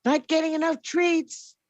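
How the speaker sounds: high squeaky pet voice whining to Mom; cat complaining. Pretend. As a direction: play the cat grumbling to its owner. Voicing the cat's complaint.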